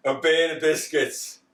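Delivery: lightly hammed-up order; mock commanding voice. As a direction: boom it out like an overlord, playfully. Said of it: "I forgot about that".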